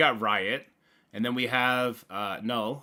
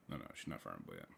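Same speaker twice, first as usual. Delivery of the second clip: quick muttered aside; 17 dB quieter, much faster than usual. Real, not acted. Quick answer to himself.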